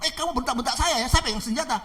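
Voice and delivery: acted outrage at being yelled at; angry robber. Armed robber threatening the pastor, angry. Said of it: "Ini perampok marah-marah".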